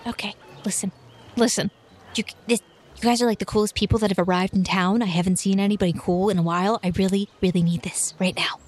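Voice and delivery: put-on eager pleading girl. Cece pleads, ends whispering.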